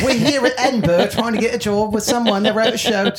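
put-on struggling American actor's Scottish accent; bad fake Scottish accent. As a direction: do a clumsy mock Scottish accent. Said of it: "three failed Juilliard actors doing their".

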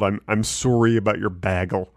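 lightly copied Wisconsin SORE-ee and BAG-ul; a hint of Wisconsin on "Sorry" and "Bagel"; imitated Wisconsin accent. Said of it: "should be spelled that way".

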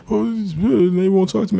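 put-on high, slow, whiny kid's complaint; mock crying kid. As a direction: play the hurt boy telling the teacher. Crying boy tells teacher.

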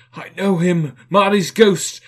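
high, loud cry of recognition; loud, high-pitched alarmed shout; startled cry. A narrator's reading. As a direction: cry out as the flame leaps. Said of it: "as though it cried".

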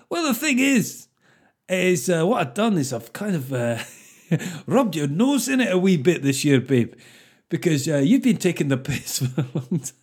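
mock explanation. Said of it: "You go".

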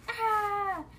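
mock scary scream. Girl scaring Grandma, loud high mock scream. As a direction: scream to scare her. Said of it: "I screamed".

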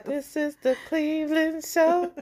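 high, sing-song announcer line; show intro quote. Retold or imitated. Host quoting the Cleveland Show opening in a lightly put-on sing-song voice.

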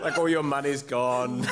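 laughing imitation of a Southern belle; mock Southern belle. Teasing player about being poor, mock Southern belle accent. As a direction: lightly tease with a Southern belle lilt. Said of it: "real sort of Southern belle accent".

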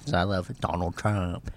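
Donald Trump impression. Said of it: "impression of your dad".

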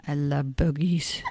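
lightly voiced small child; a hint of a tiny child voice; little voice. Retelling her daughter under the ottoman, little child voice. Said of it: "this little voice going".

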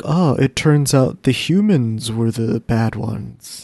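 slow, mildly mocking realization; mock revelation, slowly drawn out; eye-rolling sarcasm. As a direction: drag it out with an unimpressed eye-roll. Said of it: "kind of rolled my eyes at".

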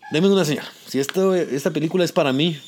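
pleading with God and his late father for a sign; prayer. Retold or imitated. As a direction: pray it out, ending hushed. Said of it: "Dios mío, papá".

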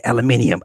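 "aluminium" with the extra i before the last syllable; British aluminium. Retold or imitated. Quoting the Top Gear host, British aluminium. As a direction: say "aluminium" as al-uh-MIN-ee-um. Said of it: "he says aluminium".

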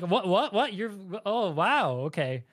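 a flight attendant caught off guard, imitated; startled surprise. Host imitates a flight attendant hearing a foreigner speak Chinese, stunned.

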